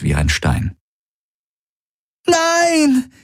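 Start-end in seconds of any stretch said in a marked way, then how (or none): 2.3-3.1 high desperate scream. A narrator's reading. Kirai seeing Gaurus killed, desperate scream. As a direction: scream as he falls dead. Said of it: "schrie Kirai".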